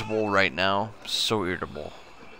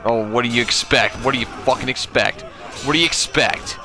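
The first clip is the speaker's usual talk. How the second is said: exasperated yell; 3 semitones higher, 3 dB louder than usual. Real, not acted. Raging at other players.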